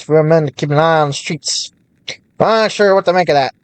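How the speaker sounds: lightly voiced old-time merchant; a hint of vintage radio announcer; 1930s newscaster voice.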